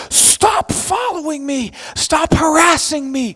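slow, loud accusing repetition. Retold or imitated. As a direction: hammer each word at him like a stalker's accusation. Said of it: "they're like".

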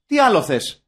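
rhetorical question with a falling end; mild exasperation. Acted. Host summing up the film's simple offer, mildly exasperated. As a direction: ask it as if it were obvious.

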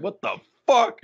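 high, mock-baffled kid voice; young self, baffled. A young boy confused by a subtitled film, high mock outrage. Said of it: "I was like".

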